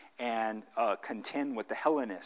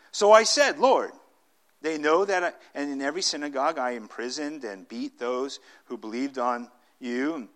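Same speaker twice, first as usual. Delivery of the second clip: Paul arguing; 2 semitones higher, 8 dB louder than usual. Acted. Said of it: "Paul argues with God".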